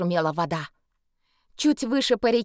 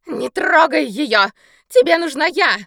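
shouting; 5 semitones higher, 5 dB louder than usual. Acted. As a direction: shout to draw the danger away. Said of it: "закричала сеньора Клара".

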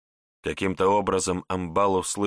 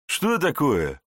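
mocking laugh; 6 semitones higher, slower than usual. A narrator's reading. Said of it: "смеялся Верзила".

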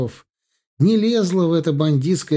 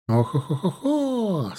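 hands cupped call; 6 semitones higher, slower than usual. Acted. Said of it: "сложив ладони вокруг рта колодцем, кричала Тесс".

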